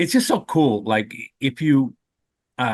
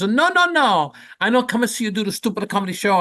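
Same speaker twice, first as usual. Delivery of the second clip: put-on Italian mother accent; 8 semitones higher than usual. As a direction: play the old Italian mother brushing her son off. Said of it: "you have that accent really good".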